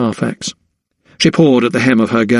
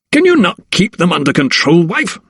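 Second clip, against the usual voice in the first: higher, sharp scold of his wife; 6 semitones higher than usual. A narrator's reading. Husband scolding his wife over the noise, sharp. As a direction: reproach her, irritated. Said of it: "he scolded".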